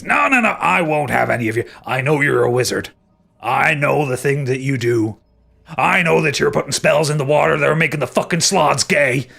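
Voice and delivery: angry rant. Acted. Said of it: "And Aldrich goes".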